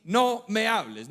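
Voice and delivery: slow, firm refusal, each word set apart; mock stern wife, leaning on the first word; imitated angry wife. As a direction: shut him out, imitating an annoyed wife. Imitates wife's curt refusal.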